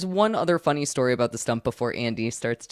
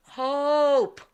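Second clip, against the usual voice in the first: higher, firmer drawn-out mock shout; mock yell, escalated; 13 semitones higher than usual. Lady repeating her name to a deaf psychic, stronger mock yell. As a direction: imitate calling out harder to be heard. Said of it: "yelling it as loud as she possibly can".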